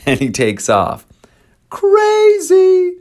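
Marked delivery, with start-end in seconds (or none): 1.7-3.0 shrill high exclamation of disbelief; amazed exclaim. Real, not acted. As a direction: shout it like you can't believe it. Reacting to the story.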